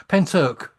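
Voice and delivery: "Penturk" said clearly as PEN-turk; corrected pronunciation. Shown as a demonstration. Co-host giving the name of the case, corrected pronunciation. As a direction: say "Penturk" distinctly, with a "turk" ending. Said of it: "that's what it's called".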